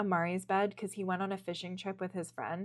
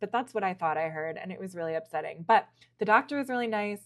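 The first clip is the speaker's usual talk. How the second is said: normal talking voice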